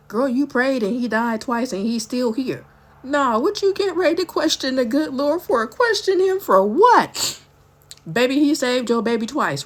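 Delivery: rising shout at herself, astonished and indignant; self-scolding outburst. Retold or imitated. Telling herself off for doubting God, rising to a shout.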